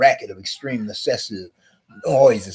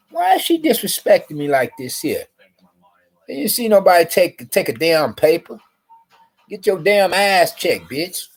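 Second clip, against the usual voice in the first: mock angry tirade; 6 semitones higher than usual. Retold angry words to guard.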